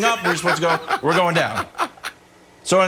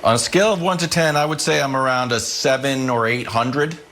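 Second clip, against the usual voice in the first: deadpan gloom; 5 semitones lower than usual. Real, not acted. Fan answering how panicked they should be, deadpan gloom. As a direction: answer gravely, letting the pitch sink.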